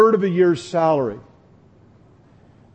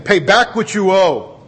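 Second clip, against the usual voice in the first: slow, louder demand; mock demand; 2 semitones higher, 5 dB louder than usual. Pastor voicing the slave choking his debtor, a hammed-up demand. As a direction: lean on every word like a creditor.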